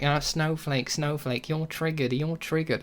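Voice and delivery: mocking taunt. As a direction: tease like a childish troll. Mimics trolls' repeated taunt.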